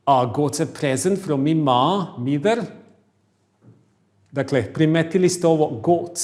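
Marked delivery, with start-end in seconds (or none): 0.1-2.6 loud, broad Scottish accent. Shown as a demonstration. Teacher reads the Scottish sentence to class in Scottish accent. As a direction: say it like a Glaswegian. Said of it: "Scottish English".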